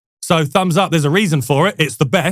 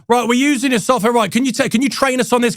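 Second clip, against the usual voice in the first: slightly higher, put-on Australian accent; mock Australian accent; 6 semitones higher than usual. CEO openly asking for training on cracked software, mock Australian accent. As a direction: play the CEO with a light Aussie twang. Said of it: "it's a terrible accent".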